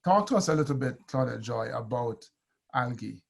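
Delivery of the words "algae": "algae" with a hard g; English pronunciation. Real, not acted. Host asks guest about algae, "algae" said with a hard g. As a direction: say "algae" as AL-ghee. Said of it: "I just use English pronunciation".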